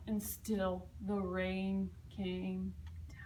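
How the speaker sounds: very slow, falling into a whisper; drawn-out rainy refrain. A narrator's reading. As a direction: stretch it out like steady rain.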